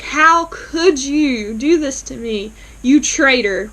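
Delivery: mock outrage. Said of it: "going off on Greg".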